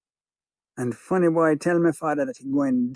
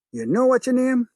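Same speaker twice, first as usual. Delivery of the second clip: taunting gangster; 9 semitones higher than usual. Acted.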